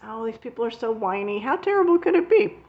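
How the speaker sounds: half-playful scornful retort; dismissive scoff. Retold or imitated. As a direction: brush off the complainers as whiners, then a loud incredulous question. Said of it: "And I'm like".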